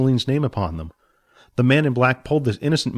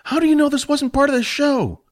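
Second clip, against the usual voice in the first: high doubting voice for Jack; skeptical mentor. Acted. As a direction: question him sharply.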